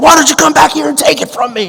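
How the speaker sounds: high scream. Retelling what the armed man screamed back through the door: imitating someone screaming. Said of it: "he would scream back through the door".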